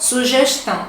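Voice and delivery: Sugestão with the s as sh, sugeshtão; hissed s. Shown as a demonstration. Teacher echoing the Maranhão clip: sugeshtão. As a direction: hiss the s in Sugestão. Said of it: "é um S chiado".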